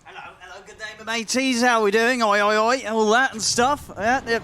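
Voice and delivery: lightly put-on caster voice with a loose British twang; OD Pixel impression. Caster doing his co-caster's requested bit, a light caster impression. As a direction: ham up a rival caster's cheery hype. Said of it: "do my best O D Pixel impression".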